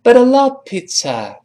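"But I love" linked as budda luv; correct linked reading. Shown as a demonstration. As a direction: run "But I" together, short uh in "love". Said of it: "我们应该这么说". (“But I”连读，love发“呃”音)

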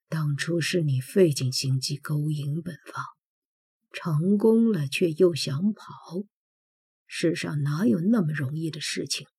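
low, soft, near the ear; low intimate. Acted. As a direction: murmur it with menace. Prince close to her ear. (贴耳低语)

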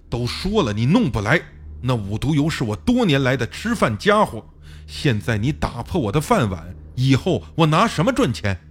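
understated rage, throwing him out the door; furious again. Acted. Fang Gang ordering the narrator out of his house, furious. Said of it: "方刚又暴怒起来".

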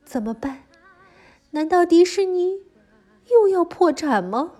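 put-on lively storytelling for little kids; reading to a toddler. A narrator's reading. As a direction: tell it brightly to a small child. Children's story narration throughout.

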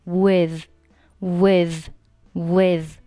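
"with" said alone, ending on a th with the tongue between the teeth; tongue-tip th. Shown as a demonstration. Teacher drilling learners, careful th ending on "with". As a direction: finish "with" with tongue tip lightly touching the teeth. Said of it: "上下齿要轻触舌尖".

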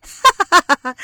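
loud, high burst of laughter; hearty laughter. Acted. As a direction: throw your head back and roar. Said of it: "哈哈大笑起来". (哈哈大笑)

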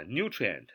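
"nutrient" with the stress right at the front; stress on first syllable. Shown as a demonstration. Teacher showing learners the word's stress, "nutrient" stressed on its first syllable. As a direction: hit the first syllable of "nutrient", let the rest fall. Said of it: "重音在最前面".

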